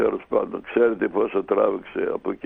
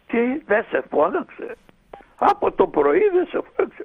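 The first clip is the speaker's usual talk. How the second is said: indignant mother, much higher and a little louder; shocked disbelief; 3 dB louder than usual. Retold or imitated. Mother shocked he was kept waiting.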